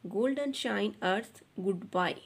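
"golden shine earth goodbye" again read slowly and evenly; slow model reading, repeated; slow fluent reading. Shown as a demonstration. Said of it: "बच्चों इस तरह से पढ़ेंगे". (धीमे और साफ़ दोहराना)

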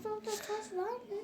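quick hushed whisper. Real, not acted. Quiet question while playing.

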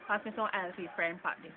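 everyday Jamaican speech; Jamaican accent. Shown as a demonstration. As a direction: say it with a Jamaican lilt. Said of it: "In Jamaica".

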